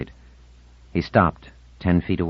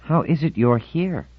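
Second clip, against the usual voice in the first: coldly; 9 semitones higher, slower than usual. A narrator's reading. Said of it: "said coldly".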